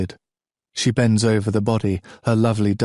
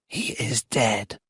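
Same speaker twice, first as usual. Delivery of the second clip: slow, quiet and flat; cold, flat statement of a death; 5 dB quieter, slower than usual. A narrator's reading. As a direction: state it without feeling. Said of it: "she says in her flat voice".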